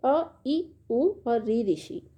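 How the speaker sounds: slow, each short vowel held apart; sounding the short vowels for the class, slowly; slow listing of vowels for students; vowel demo. Shown as a demonstration. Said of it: "आप बोल के भी देखेंगे तो".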